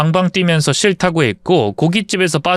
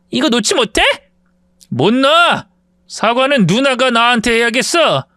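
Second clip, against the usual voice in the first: higher, strained demand to let go; pained angry cry; 7 semitones higher than usual. Acted. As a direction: fight back through the pain. Wife's wrist twisted, fight.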